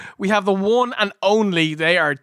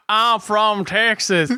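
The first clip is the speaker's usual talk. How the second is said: put-on Texas accent; slower than usual. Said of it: "do the accent of".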